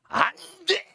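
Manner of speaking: high, forceful exclamation; emphatic prohibition. Shown as a demonstration. Preacher showing what the Greek word means, emphatic prohibition. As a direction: cry out the ban, pitched well up. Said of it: "이런 뜻이에요".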